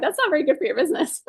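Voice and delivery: quick, laughing imitation of a sceptic; fast laughing quote of doubters; laughing mock critic. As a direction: poke fun at the critics while laughing. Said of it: "People are like".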